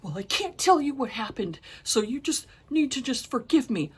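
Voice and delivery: mildly exaggerated imitation of a mother; mimicking the mother. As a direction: put on a bit of her excuse-making. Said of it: "the mother was like".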